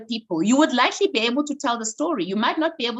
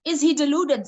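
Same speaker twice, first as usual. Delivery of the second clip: slow, higher, drawn-out announcer call; mock MC announcement; 5 semitones higher than usual. Imitating the MC introducing her speech title, a slow, higher drawn-out announcement. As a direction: stretch the title out like an MC on stage.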